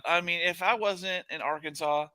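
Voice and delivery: laughing mock threat.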